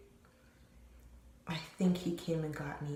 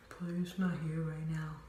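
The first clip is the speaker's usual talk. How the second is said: whispered repeat of the excuse. Retold or imitated. Cousin at the door whispering that he's not home. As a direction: hiss the lie back through the door.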